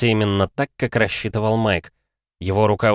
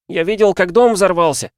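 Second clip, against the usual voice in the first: put-on high, loud boyish voice; a child asking in disbelief; eager boy; 10 semitones higher, 5 dB louder than usual. Oliver on the phone to his mother, high and eager.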